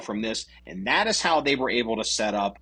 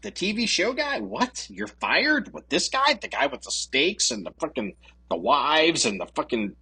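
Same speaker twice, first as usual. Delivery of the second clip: mock disbelief in rising questions; scoffing, questioning imitation; incredulous; 4 semitones higher than usual. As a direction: play the baffled doubter. Acting public disbelief at candidate.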